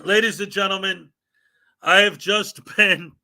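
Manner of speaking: mock-formal announcement cracking up mid-line; a grand opener that dissolves into giggles; breaking into laughter. Shown as a demonstration. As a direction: try to announce grandly but laugh through it. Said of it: "really hard not to laugh and talk like this is for real".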